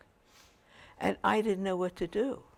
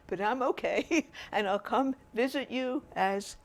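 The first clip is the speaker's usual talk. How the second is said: laughing; 5 semitones higher than usual. Retold or imitated. Laughing while reassuring mom.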